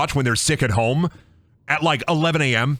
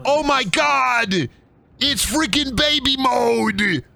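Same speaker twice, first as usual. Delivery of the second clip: slow, high-pitched exclamation; high mock outrage; 10 semitones higher, much slower than usual. Streamer finds the game is baby mode, high mock outrage. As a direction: drag it out way up high.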